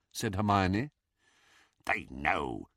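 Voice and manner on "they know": low, soft whisper in the ear. A narrator's reading. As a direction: hiss a secret warning. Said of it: "whispered Griphook in Harry's ear".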